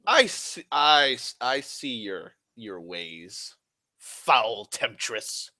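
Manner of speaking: hammed-up old-time denunciation, falling in pitch; mock accusation. Speaker rebuking a foul temptress, mock accusation.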